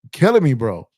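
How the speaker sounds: retelling the early wake-up call, exasperated; exasperated outcry. Retold or imitated. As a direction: throw up your hands, you're killing me. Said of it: "I was like".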